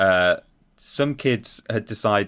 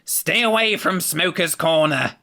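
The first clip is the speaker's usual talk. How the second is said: high, slow nasal warning; nasal deputy head voice; 9 semitones higher than usual. Retold or imitated. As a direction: sound like a small deputy head with a strong nasal voice. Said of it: "very strong nasal voice".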